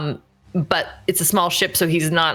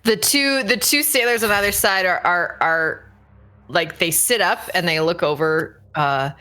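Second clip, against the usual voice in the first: ordinary talk, nothing marked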